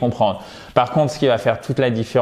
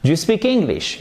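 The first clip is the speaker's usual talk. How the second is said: "Do you speak English" pitched high as a question; questioning tune climbing through "Do you speak English"; rising question intonation; 6 semitones higher than usual. Shown as a demonstration. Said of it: "on va avoir une intonation montante".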